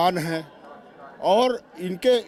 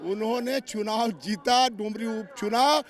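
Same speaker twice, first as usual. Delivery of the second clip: raised, insistent rally-style oratory; political speechmaking; 4 semitones higher than usual. Real, not acted. Minority wing leader warning the government through a reporter, insistent oratory. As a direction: drive each phrase home like a stump speech.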